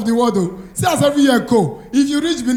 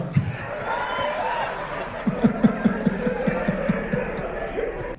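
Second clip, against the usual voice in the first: crowd laughter; 8 dB quieter than usual. Real, not acted. Audience laughs at stand-up joke.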